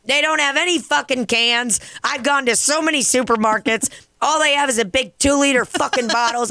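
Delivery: high-pitched defensive rant, retold; exasperated protest. Bartender defending herself to roasting customers, exasperated protest. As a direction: plead your case emphatically, pitched high.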